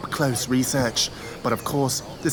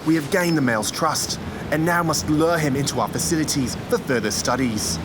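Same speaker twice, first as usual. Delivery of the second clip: nature documentary. Acted. Documentary narrator again.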